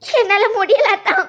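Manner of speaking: slow, weepy pleading; tearful. Acted. Woman pleading with her fiancé, tearful. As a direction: struggle to get it out through crying. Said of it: "அதையே சொல்லிக்கிட்டு இருக்காத".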